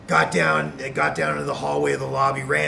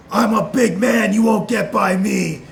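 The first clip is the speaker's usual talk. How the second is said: tough guy; 7 semitones higher, 9 dB louder than usual. Retold or imitated. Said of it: "He goes".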